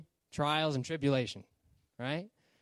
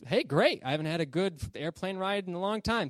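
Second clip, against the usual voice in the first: pleased passenger; 4 semitones higher than usual. Acted. Passenger gladly accepts the parachute.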